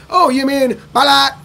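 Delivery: high, eager mistaken guess; a hint of a puzzled listener guessing; confused local. Local mishearing his name, high and eager. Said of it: "I'm like".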